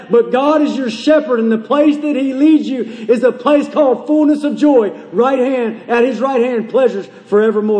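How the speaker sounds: rolling, insistent preacher's cadence; fervent preaching. Acted. Preacher assuring the sad of joy, fervent preaching. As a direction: drive the promise home without letting up.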